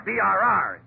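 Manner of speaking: letters B R R said one by one; spelled-out brr. Shown as a demonstration. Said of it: "You don't say B R R".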